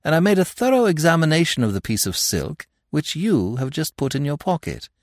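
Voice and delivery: lightly voiced gentleman thief, amused; a hint of smug teasing charm; Lupin, suave and mocking. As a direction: needle the inspector with easy amusement. Lupin's voice, held through his speech.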